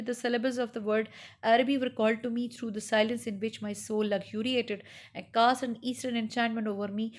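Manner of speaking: slow, measured literary reading; story reading. Acted. Teacher reading Araby to students, slow story narration. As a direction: read each phrase slowly to the class.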